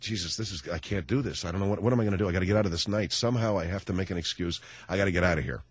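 hushed, low, desperate muttering; a quiet, low aside full of dread; panicked inner voice. Retold or imitated. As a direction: say it under your breath, plotting your escape. Panicked thoughts at bad dinner.

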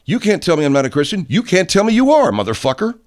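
yelled back, high and loud; mock Christian rebuttal. Ranting back at self-proclaimed Christians, high angry yell. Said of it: "You say".

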